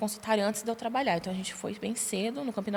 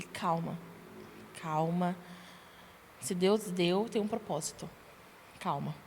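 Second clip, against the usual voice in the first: softer, lower retold reassurance; mildly reassuring; 4 semitones lower, 6 dB quieter, slower than usual. Partner answers her pregnancy news, mildly soothing. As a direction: gently imitate someone urging calm.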